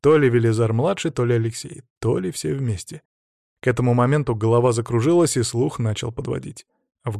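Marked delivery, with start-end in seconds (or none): none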